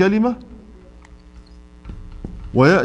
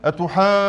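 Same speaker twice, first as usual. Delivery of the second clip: أتحاجوني with two long level stretches before the doubled consonants; double long madd; faster than usual. Shown as a demonstration. Teacher giving another madd example, long aa and oo in أتحاجوني. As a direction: hold both aa and oo long in أتحاجوني. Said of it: "مثال كذلك".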